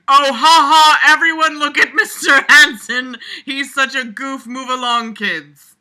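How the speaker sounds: loud mocking shout, laughing it off; ha-ha fake jolly shout; screamed. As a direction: yell it out like a teacher covering his embarrassment. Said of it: "and screamed".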